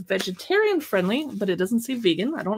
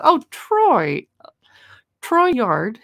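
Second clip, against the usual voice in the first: excited greeting; 6 dB louder, much slower than usual. Real, not acted. Greeting a viewer in chat.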